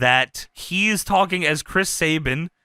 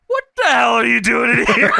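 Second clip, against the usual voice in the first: louder, higher bark at him; mock shout; 6 semitones higher, 5 dB louder than usual. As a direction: yell at the intruder. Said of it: "and he says".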